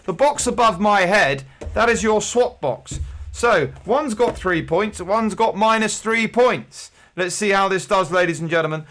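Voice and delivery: upbeat game show host patter; a pub quizmaster playing a TV game show host for the crowd, upbeat. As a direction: sell it like a TV quiz host. Hosts mock game show.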